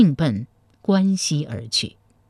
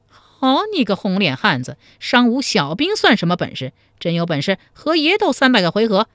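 furious challenge; 4 semitones higher than usual. Acted. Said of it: "黄面汉子见状大怒".

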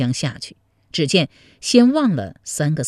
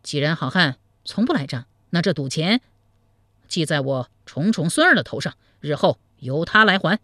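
smooth things over with a light smile; a touch of mock good humour; turned cheerful. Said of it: "监赌转怒为喜说".

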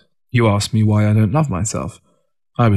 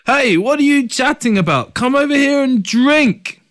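bellowing. Acted. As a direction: bellow it out to the others. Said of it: "Ting started bellowing".

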